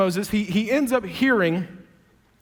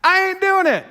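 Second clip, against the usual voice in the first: protesting refusal; 3 semitones higher than usual. Retold or imitated. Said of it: "he's like".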